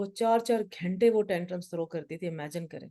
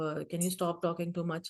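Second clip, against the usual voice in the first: mock scolding; 2 semitones lower, 6 dB quieter, much slower than usual. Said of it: "شیم نہیں کرنا پوری class میں".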